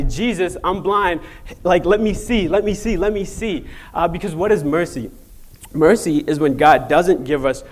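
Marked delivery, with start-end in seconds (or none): 0.0-3.7 mildly acted begging, insistent; imagined cry. Speaker imagines blind man crying out to see, pleading. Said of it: "he would cry out and say".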